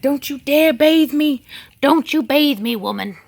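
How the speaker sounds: high, loud mock protest; voicing indignant animals. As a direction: play an outraged pet scolding its owner. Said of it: "They're like".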